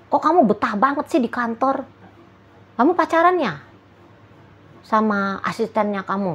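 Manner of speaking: high, pouting suspicious jab at the partner; a suspicious girlfriend's high whiny accusation; jealous accusing partner. Retold or imitated. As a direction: needle him like a jealous partner. Partner acted jealously accusing you.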